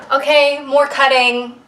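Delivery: cheerful. Real, not acted. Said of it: "to say so cheerfully".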